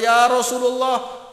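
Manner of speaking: high, loud, slow crying cry; tearful plea. Acted. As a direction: wail his name through tears. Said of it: "menangis Sayyidina Fatimah dan berkata". (ratapan tangis yang tinggi)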